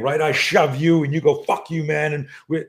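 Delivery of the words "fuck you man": mildly heated demo retort; mock anger. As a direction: toss out a hot-headed comeback as an example. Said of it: "It's that emotional anger thing".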